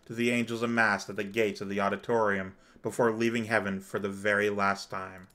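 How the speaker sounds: measured, dramatic storytelling read; story narration. A narrator's reading. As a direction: narrate it gravely, phrase by phrase. Reads story narration aloud.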